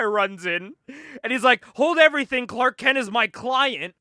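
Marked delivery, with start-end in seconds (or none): 1.8-3.9 higher, louder mock lawyer's objection; lightly hammed-up announcement, slowing at the end; urgent interruption. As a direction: halt everyone like a lawyer rushing in.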